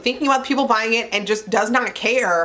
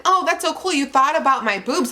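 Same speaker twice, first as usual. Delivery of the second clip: sarcastic; 4 semitones higher than usual. Retold or imitated. Mocking the brand's gift.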